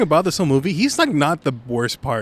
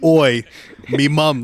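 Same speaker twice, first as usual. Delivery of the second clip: bad English accent; slower than usual. Friend mimicking the joke line, bad English accent. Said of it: "intentional bad English accent".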